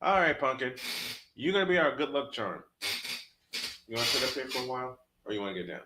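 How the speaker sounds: soft, tender coaxing; talking to cat. Real, not acted. Calling his cat Pumpkin up to him, soft and tender. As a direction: coax the cat up gently.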